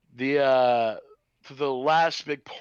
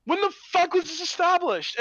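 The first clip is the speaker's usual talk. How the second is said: pitched way up, baffled; incredulous high outburst; 14 semitones higher, 4 dB louder than usual. Retold or imitated. Viewer mocking the film, high incredulous squeal. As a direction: squeal the question in disbelief. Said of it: "I'm like".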